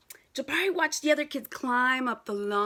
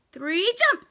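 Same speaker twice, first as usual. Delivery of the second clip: loud call to jump; 6 semitones higher, 7 dB louder than usual. Real, not acted. Counting children into a jump.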